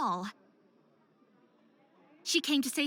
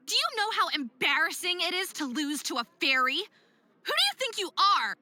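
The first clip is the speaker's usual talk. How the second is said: angry outburst. Acted. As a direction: tear into her for ruining the performance. Dawn lashes out at Lilith.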